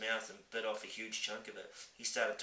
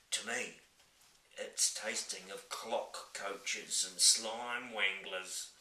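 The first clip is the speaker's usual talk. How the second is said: giant voice; much slower than usual. Acted. Giant laughing.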